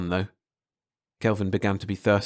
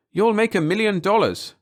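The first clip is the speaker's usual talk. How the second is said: patient; 11 semitones higher, 4 dB louder than usual. Acted. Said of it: "said patiently".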